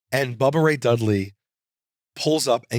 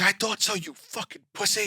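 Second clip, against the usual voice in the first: contemptuous sneer; 7 semitones higher, 6 dB quieter than usual. Retold or imitated. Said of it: "he's like".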